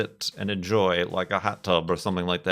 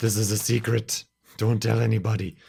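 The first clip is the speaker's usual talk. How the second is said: put-on cartoon character voice, whispered; 2 semitones higher than usual. Showing a bad Homer whisper impression. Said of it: "the Homer whisper thing".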